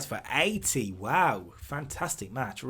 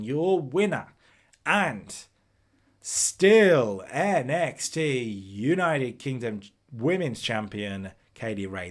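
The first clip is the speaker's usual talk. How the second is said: slow, booming ring announcer call, louder; 6 dB louder, slower than usual. Pretend. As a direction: draw out the champion's intro like a ring announcer.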